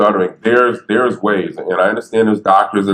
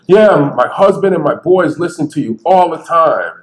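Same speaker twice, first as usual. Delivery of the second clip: excited woman; 7 semitones higher than usual. Retold or imitated. Lady voiced in story.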